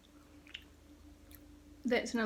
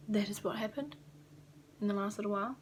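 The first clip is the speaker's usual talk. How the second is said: whisper; faster than usual. Real, not acted. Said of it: "whispered aside".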